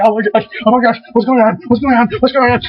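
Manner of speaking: mock panic climbing in pitch; freaking out. Turning things over in a search, mock freaking out. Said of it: "I just freak out".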